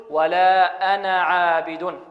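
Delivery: slow recitation with a short final a in أنا; brief أنا in measured chanting; alif dropped. Shown as a demonstration. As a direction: clip only the end of أنا before a long عابد. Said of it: "بل نحذفها ونقول".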